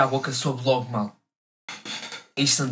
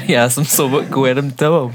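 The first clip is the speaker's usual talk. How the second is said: laughing; 6 dB louder than usual. Real, not acted. Laughing at joke.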